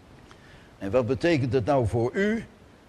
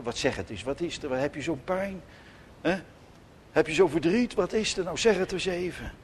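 much softer, gentle parent coaxing; tender comforting; 5 dB quieter, faster than usual. Retold or imitated. Parent sitting on the bed comforting a crying child, soft and tender. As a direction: soothe a child who is crying.

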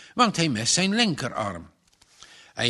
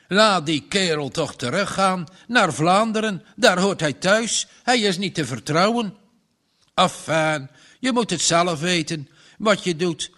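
louder, higher stubborn farmer warning; stern farmer; 3 semitones higher, 3 dB louder than usual. Acted. Farmer tells Margje to send Janus back, stern and loud. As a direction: insist like a grudging old farmer.

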